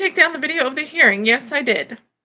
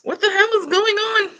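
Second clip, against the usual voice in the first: imitating a confused viewer, pitched higher; a hammed-up what-is-this reaction, higher; mock baffled viewers; 8 semitones higher than usual. Mother voicing newly arrived viewers, mock baffled and higher. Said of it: "and they're like".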